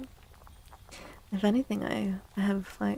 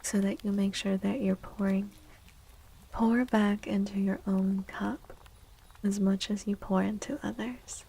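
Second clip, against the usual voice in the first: ASMR whisper. Acted. Streamer gently advising chat in an ASMR whisper. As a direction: whisper it close to the mic, unhurried.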